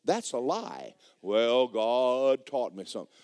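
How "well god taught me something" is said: slow, drawn-out mock piety; put-on drawling believer; mocking imitation. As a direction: drag it out to mimic an excuse. Mimics misguided believers' excuse.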